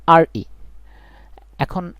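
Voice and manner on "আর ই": spelled out slowly. Shown as a demonstration. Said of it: "উচ্চারণ কি করি".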